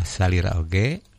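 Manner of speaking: "salira oge" with a rise at the end; intonation demo. Shown as a demonstration. Teacher correcting a reader's intonation on "salira oge", rising tune. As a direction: let "oge" lift gently as the phrase ends. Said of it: "Intonasina tah dina salira oge".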